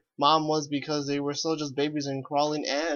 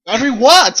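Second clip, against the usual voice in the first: surprised; 8 semitones higher, 13 dB louder than usual. Real, not acted. Incredulous at broken sentence.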